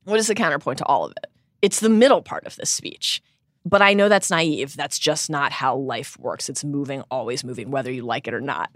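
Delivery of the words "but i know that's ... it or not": soft, slowing, voice sinking into tears; trying not to cry. Real, not acted. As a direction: read it while holding back real tears. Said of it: "I can't even read the rest 'cause I'm gonna cry".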